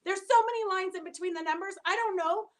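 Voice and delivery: flustered son. Retold or imitated. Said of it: "He's like".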